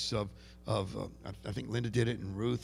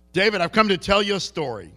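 Jewish brogue; 6 semitones higher, 7 dB louder than usual. Retold or imitated. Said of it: "Can you hear the, the Jewish brogue there?".

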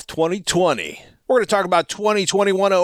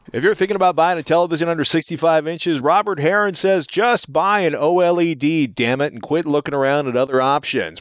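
radio voice. Acted. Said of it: "I've got radio voice on today".

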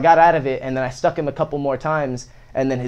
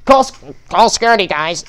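loud, higher mock teacher voice; panicked teacher; 5 semitones higher, 7 dB louder than usual. Teacher calling for security on a student, mock alarmed shout. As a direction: imitate a flustered teacher calling out urgently. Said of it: "The teacher was like".

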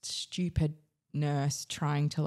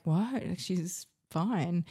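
shocked disbelief; 3 semitones higher, much slower than usual. Retold or imitated. Told the baby isn't breathing.

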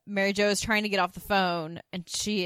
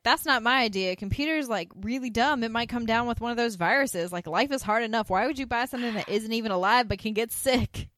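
higher and louder, airy mock ditz; imitating Suzanne; 4 semitones higher, 4 dB louder than usual. Suzanne dismissing the computer gift, in a higher mock ditzy voice. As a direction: play it naively scandalised. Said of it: "Suzanne's like".

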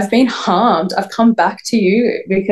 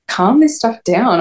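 slow, higher disbelieving echo; incredulous echo; 4 semitones higher, slower than usual. Retold or imitated. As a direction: repeat it back in slow disbelief. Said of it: "And I was like".

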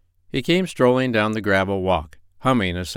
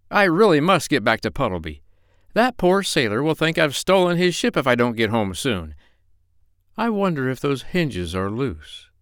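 higher, anxious doctor voice; worried doctor; 5 semitones higher than usual. Acted. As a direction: fret about getting home.

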